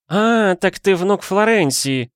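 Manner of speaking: high, slow dawning exclamation; the penny finally drops. A narrator's reading. Aunt realising who the boy is, excited. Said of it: "воскликнула женщина".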